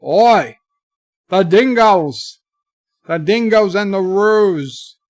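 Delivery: loud, hammed-up Australian accent; mock Australian. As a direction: call it out in a badly faked Australian accent. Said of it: "better than his Australian".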